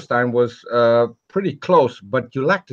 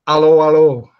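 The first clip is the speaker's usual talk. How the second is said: higher, louder mock sitcom greeting; British TV character; 4 semitones higher, 9 dB louder than usual. Imitating a British TV character for friends on a call. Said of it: "so close to, uh, to a character from a, a British T V show".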